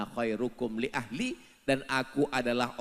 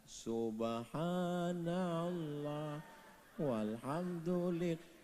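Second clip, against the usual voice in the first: slow, soft murmured praise; soft dhikr; 8 dB quieter, much slower than usual. Acted. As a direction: breathe it out quietly. (zikir pelan dan lembut)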